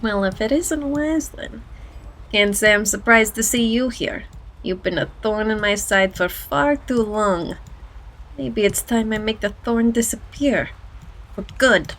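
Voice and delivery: lightly voiced menacing goblin; understated goblin villain. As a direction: read it as a goblin making a veiled threat. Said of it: "my best goblin voice".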